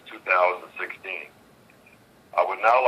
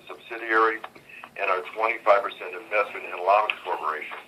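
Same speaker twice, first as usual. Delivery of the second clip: on speakerphone. Real, not acted. Earnings conference call over phone.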